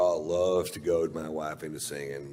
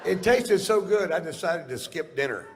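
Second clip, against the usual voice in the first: giddy; 11 semitones higher, 6 dB louder than usual. Acted. Drunken giddy storytelling.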